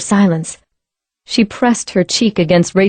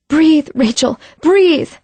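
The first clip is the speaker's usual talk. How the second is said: pleading shout; 8 semitones higher, slower than usual. Acted. CPR, pleading with friend.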